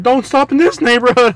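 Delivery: hammed-up alarmed cry; imitating terrified passenger. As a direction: plead urgently like a scared rider. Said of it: "she was just terrified".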